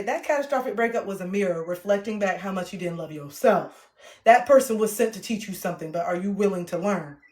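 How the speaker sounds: emphatic, conversational audiobook read; reading in her own personality. Shown as a demonstration. Author showing how she will say it, in her own style. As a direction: read it as yourself, with attitude. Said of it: "I'm gonna say".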